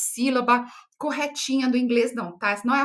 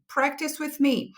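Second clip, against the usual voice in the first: slow model read; 2 semitones higher, slower than usual. Shown as a demonstration. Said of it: "Vamos falar junto comigo aqui".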